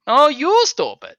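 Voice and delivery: high, slow drawn-out jeer; whiny taunt. Acted. Two department heads trading insults, high drawn-out jeer. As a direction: stretch the insult out childishly.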